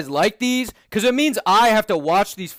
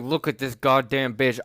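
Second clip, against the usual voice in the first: Max's voice; 9 semitones lower, 4 dB quieter than usual. Retold or imitated. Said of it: "Max is like".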